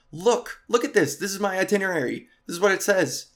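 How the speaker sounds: begging the guard to just look; pleading with security. Retold or imitated. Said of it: "I'm standing at the security gate like".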